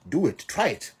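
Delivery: high, loud taunting dare; daring challenge. Real, not acted. Mocking the boycotters, daring them to try it. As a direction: throw the dare right back at them.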